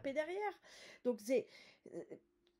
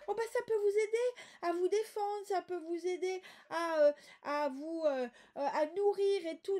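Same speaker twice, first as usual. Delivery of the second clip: naive giver voice; 5 semitones higher, 5 dB louder than usual. Retold or imitated. Voicing a naive well-meaning giver.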